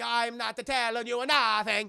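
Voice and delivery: loud, slow tough-guy refusal; mock defiant thug. Thug refusing to talk to the hero, loud mock defiance. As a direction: refuse loudly, stretching the words. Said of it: "He's like".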